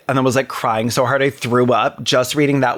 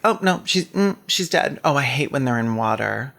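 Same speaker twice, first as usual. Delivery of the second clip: mock fake empathy; 3 dB quieter than usual. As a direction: pretend to care while delivering bad news. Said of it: "making it sound like she's empathizing".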